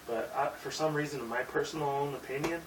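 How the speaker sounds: slightly vibrating, wobbly voice. Real, not acted. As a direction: let the voice waver a little. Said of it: "you hear my, like, voice vibrating".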